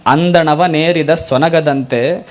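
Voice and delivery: slow, measured devotional recitation; recited vachana. Acted. Preacher reciting Basavanna's plea to the Lord, slow and measured. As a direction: intone each phrase like a prayer to Kudala Sangama. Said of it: "Basavanna ಅಂತಾನೆ".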